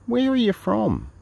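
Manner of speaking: high drawn-out whiny question; whiny traveller. Retold or imitated. Mocking a whiny traveller's question. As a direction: mimic the moaning traveller.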